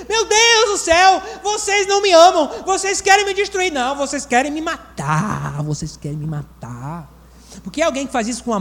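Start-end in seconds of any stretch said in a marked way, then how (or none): 0.1-3.7 high, crying lament of an overwhelmed wife; hammed-up weeping complaint, pitched high; mock tearful wail. Wife complaining about messy house. 5.6-7.2 quiet lower repeat. Retold or imitated. Repeats the complaint.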